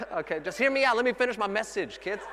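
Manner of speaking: high, loud comic pleading; exasperated dad. Retold or imitated. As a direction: plead over clamouring kids, half laughing. Dad over clamouring kids.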